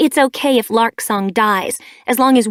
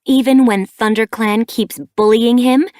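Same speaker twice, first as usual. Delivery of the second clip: louder, higher, accusing; glaring anger; 4 semitones higher, 7 dB louder than usual. A narrator's reading. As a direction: press the attack on her mother. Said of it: "Sparkpelt glared at her".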